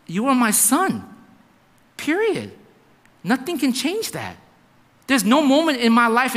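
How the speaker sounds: firm retold fatherly promise; emphatic reassurance. Dad promising son his love won't change, emphatic. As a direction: drive each phrase home to your son.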